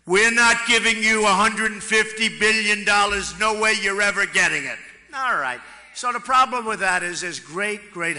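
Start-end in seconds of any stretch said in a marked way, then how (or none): 0.0-4.8 loud, blunt refusal to hand over the money; tough direct demand. Retold or imitated. Telling Iran's negotiators they get nothing, loud and blunt. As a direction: slam the door on the deal, loud and flat. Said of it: "I would have gone in and said".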